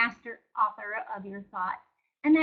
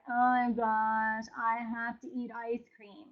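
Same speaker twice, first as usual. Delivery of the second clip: slow, softer groaning over a treat; mock reluctant; 3 dB quieter, slower than usual. Joke about dreading ice cream, slow mock reluctance. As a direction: ham up the dread. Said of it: "nobody says".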